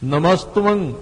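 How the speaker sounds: ਨਮਸਤਵੰ with a short v tucked into the t, nasal end; small subscript v. Shown as a demonstration. Preacher points out the small letter, ਨਮਸਤਵੰ with joined tv. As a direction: join t and v in ਨਮਸਤਵੰ, ending in ng. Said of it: "ਪੈਰ ਵਿੱਚ ਵਾਵਾ ਹੈ ਛੋਟਾ ਜਿਹਾ".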